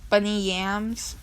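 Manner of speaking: slow, stretched-out "Bunny Yams" with a lift at the end; weird pronunciation. Real, not acted. Reader retrying an artist's name, weirdly slow rising "Bunny Yams". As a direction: draw "Bunny Yams" out oddly, half questioning. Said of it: "Why am I talking so weird?".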